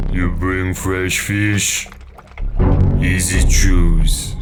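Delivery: gruff angler voice. Acted. Voicing the angler character.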